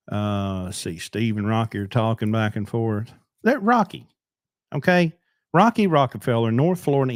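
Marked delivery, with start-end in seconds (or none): 3.4-7.1 loud and high, hyping a friend; excited shout-out. Real, not acted. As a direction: call his name out with pride. Shouting out a viewer.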